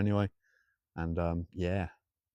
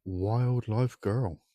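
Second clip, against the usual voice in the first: drawn-out name; much slower than usual. Acted. Reading viewer name in a voice.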